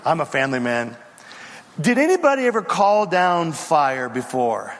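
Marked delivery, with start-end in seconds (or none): 0.0-1.0 softened, low, halting mock plea; meek pleading. Third group begging Elijah to spare them, meek pleading. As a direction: beg sheepishly, played for laughs. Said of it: "The third group comes out".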